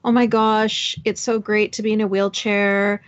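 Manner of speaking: mock-delighted, stretching the last words; lightly hammed-up gushing over a silly perk; gushing wheelchair user. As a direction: parody of a blissfully deluded person. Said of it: "think of somebody saying".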